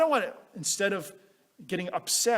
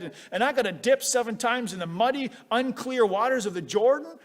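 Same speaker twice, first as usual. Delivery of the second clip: upset grumble; 5 semitones higher, 4 dB louder than usual. Retold or imitated. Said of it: "he's all upset".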